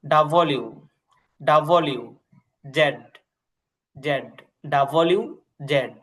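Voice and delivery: ডাব্লিউ and জেড said slowly, one by one; teacher drilling letter names. Shown as a demonstration. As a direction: spell out each letter with pauses. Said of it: "খেয়াল করেন".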